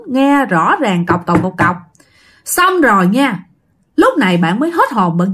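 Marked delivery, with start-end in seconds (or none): 1.1-1.8 evenly tapped-out knock sounds; knocking mimicked with the voice; imitated door knocking. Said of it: "cái tiếng gõ trong đêm nó rất là lớn".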